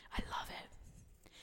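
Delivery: very soft, slow whisper; hushed aside. Real, not acted. Preacher savoring God's word, hushed aside. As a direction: whisper it slowly to yourself.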